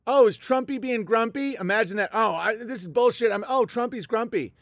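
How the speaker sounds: lightly voiced baby-talk jeer; mock taunt. Shown as a demonstration. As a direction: needle him like a playground bully. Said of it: "It's that easy to do that".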